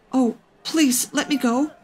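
high, soft plea; small voice begging to be freed; pleading child. A narrator's reading. Caught child pleads with the big boy, high and soft.

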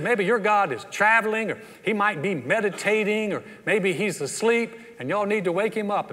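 lightly acted taunting, voice lifted; mocking. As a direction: needle them with playful mock suggestions. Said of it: "Elijah is just mocking them".

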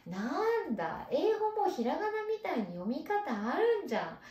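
put-on happy child. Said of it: "嬉しくなる子もいる".

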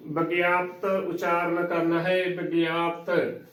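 ਵਿਗਿਆਪਤ said with a barely sounded final ਤ; correct pronunciation. Shown as a demonstration. Teacher models the word for learners, ਵਿਗਿਆਪਤ carefully pronounced with light final ਤ. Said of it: "ਸਿਹਾਰੀ ਤੱਤੇ ਨੂੰ ਉਚਾਰਨ ਨਹੀਂ ਕਰਨੀ".

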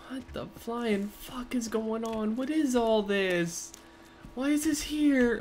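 hushed, slow, unsettled whisper. Real, not acted. Player creeped out by heads on spikes, whispering. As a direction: breathe it out, spooked.

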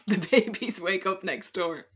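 repeated through a laugh. Real, not acted. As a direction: say it again, laughing.

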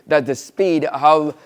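normal talking voice

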